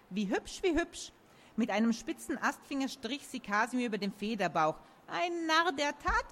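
put-on sleepy, delighted old tree; talking tree. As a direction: croon it like a pleased old oak. Oak voice in a story.

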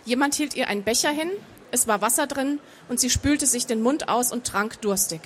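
measured audiobook narration; story narration. A narrator's reading. Author reading her fantasy novel to an audience, measured narration. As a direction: read the story out evenly and composed.

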